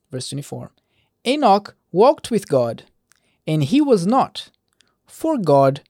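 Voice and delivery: measured verse-by-verse Bible reading; scripture reading. Acted. Preacher reading Genesis genealogy to listeners, measured scripture reading. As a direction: read the genealogy aloud, deliberate on each closing phrase.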